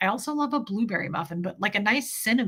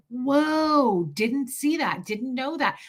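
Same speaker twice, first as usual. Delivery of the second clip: drawn-out wondering whoa; a lightly played astonished aside; mock amazement; 3 semitones higher, much slower than usual. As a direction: act stunned by news. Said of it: "I'm like".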